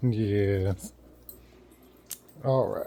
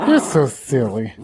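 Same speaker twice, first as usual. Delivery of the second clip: louder playful scolding of the dog; loud fond teasing of the pet; 6 dB louder than usual. Real, not acted. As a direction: tease him out loud. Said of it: "repeated to dog".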